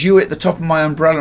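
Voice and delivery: loud, high angry shout; angry retort. Retold or imitated. Cab driver shouting back at Gregory, angry. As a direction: fire it back at him. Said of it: "the guy goes".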